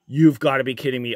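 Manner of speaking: can't-believe-it rush; excited disbelief. Real, not acted. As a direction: rattle it off in delight. Pulls an autograph card.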